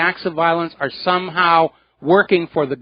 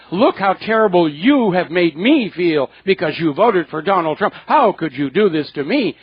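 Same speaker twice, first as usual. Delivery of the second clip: hurt and angry. Retold or imitated. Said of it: "So stop whining".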